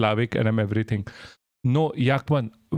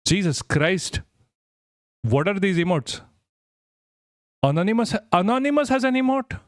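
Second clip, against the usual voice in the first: excited; 5 semitones higher than usual. Real, not acted. Excited about Twitch emotes.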